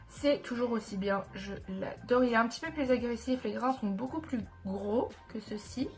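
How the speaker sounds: talking with a blocked nose; stuffy nose, thick sound. Real, not acted. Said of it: "je parle avec, euh, le nez bouché".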